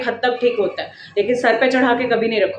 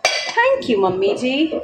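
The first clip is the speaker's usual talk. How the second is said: laughing thanks; 2 semitones higher, much slower than usual. Real, not acted. Laughing thanks to mother-in-law.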